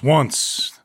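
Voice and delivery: a hint of an old Western narrator; old-timey Western voice. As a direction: read it like a lightly drawled frontier storyteller. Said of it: "quickly read in an old-timey Western voice".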